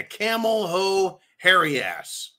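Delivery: "camel hoe hairy ass" drawn out as a jeer; slowly mangle the name; a mocking twist of the name; mock mispronunciation. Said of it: "pronounced her name wrong".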